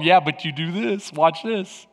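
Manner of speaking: low, soft, lightly voiced tempter; a hint of the scheming enemy, quiet and low; the tempting enemy. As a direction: drop your voice to tempt them. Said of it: "And the enemy's going".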